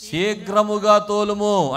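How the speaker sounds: slow, drawn-out order to the driver; quoted command. Retold or imitated. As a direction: stretch out a quoted scriptural command. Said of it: "పనోడితో అంటుందంట".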